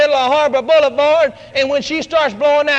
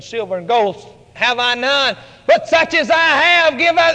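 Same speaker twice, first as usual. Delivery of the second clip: rising from hushed to full voice; building firm declaration. Acted. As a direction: build it up into a proclamation. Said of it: "all of a sudden Peter said".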